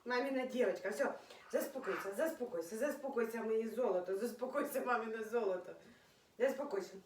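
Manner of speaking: soft, low and tender, calming the pet down; soothing. Real, not acted. (м'яко й тихо заспокоює улюбленця)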